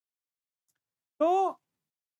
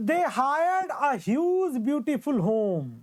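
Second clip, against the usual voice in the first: very slow and a little higher, each word spaced out; slow dictation; 6 semitones higher, much slower than usual. Shown as a demonstration. Teacher dictating a new example to students, slowly. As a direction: spell the sentence out slowly for note-taking.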